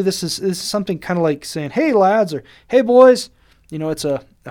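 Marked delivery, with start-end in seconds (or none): 1.7-2.3 higher and louder, a cheery hello; friendly hail. Shown as a demonstration. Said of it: "friendly greeting". 2.7-3.3 much higher, loud cheery call; friendly hail. Shown as a demonstration. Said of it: "friendly greeting".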